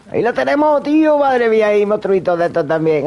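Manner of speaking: high, thrilled exclamation; excited. Real, not acted. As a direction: cry out in delight. Spotting monsters in the game.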